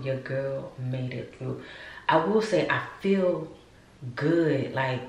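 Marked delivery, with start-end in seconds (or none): 0.0-1.6 quiet, slow repeat; slow and soft. Real, not acted. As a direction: let it sink in softly.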